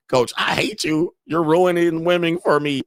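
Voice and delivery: high whiny mock fan; mock viewer complaint. Host voicing an upset viewer with a high whiny voice. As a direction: whine at the coach. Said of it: "viewer's voice imagined".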